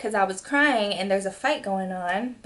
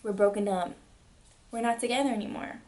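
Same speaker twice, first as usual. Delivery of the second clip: softer, quick and final; quiet firm breakup; 6 dB quieter, faster than usual. Retold or imitated. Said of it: "I'm like".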